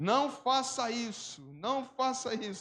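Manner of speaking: very slow, high, stretched-out, drawn-out yell. Retelling a story of a man shouting across the street: imitating someone shouting. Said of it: "foi e gritou".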